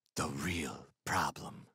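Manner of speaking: whispered, very quiet, barely above a breath. Narrator answering a man's question after pretending to think, in a hushed whisper. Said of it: "in a hushed whisper".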